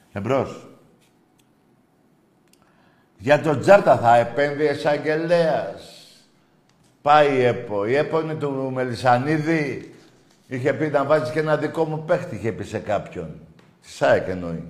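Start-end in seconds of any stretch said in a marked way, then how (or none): 3.2-12.0 heated rant. Real, not acted.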